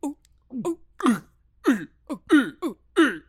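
loud hooting animal call; alligator call. Retold or imitated. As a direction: call out like a gator in the night. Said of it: "And they go".

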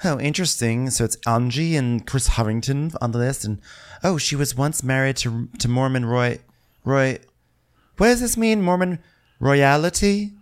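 high put-on voice reading off a list; imitated musing. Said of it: "and she's like".

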